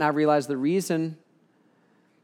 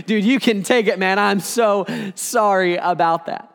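grovel a bit to the guard; sheepish apology; 3 semitones higher, 4 dB louder than usual. Retold or imitated. Speaker apologizing to the guard over the knife, sheepish.

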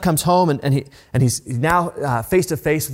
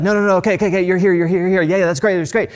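higher and louder, tumbling joyful reassurance; overjoyed interruption; 5 semitones higher, 4 dB louder, much faster than usual. Retold or imitated. Father cutting off his returning son's apology, overjoyed. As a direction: gush over him like a father who can't contain himself.

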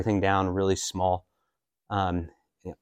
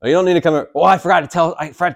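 higher, louder, amused disbelief; mock surprise; 6 semitones higher, 5 dB louder, much faster than usual. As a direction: priest teasing a penitent back after two hours. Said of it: "I'm like".

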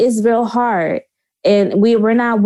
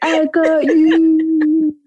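slow drawn-out comfort; 4 semitones higher, much slower than usual. Pretend. Voicing the friend catching.

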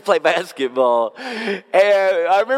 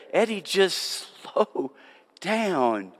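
gentle plea; 6 dB quieter, slower than usual. Retold or imitated. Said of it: "and Karen will say".

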